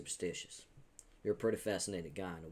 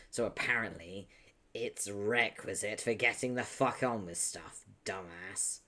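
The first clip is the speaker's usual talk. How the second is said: deep Texan drawl, louder; southern accent; 3 semitones higher, 5 dB louder than usual. Acted. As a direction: lay on the Texas twang. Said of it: "It's just a deep southern voice".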